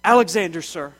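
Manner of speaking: loud, high snap of a frightened soldier; snapped to attention. A narrator's reading. Soldier snapping to attention before the emperor, loud. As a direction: bark the answer at attention. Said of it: "The boy snapped to attention and said".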